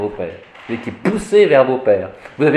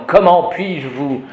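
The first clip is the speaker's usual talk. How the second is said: mock outraged priest; 2 semitones higher than usual. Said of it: "le prêtre va déchirer ses vêtements".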